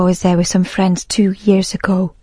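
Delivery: presenter impression slipping into Irish; attempted Welsh accent that drifts towards Irish. Introducing a record as a radio host, accent wandering into Irish. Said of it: "Oh, I've gone into Irish".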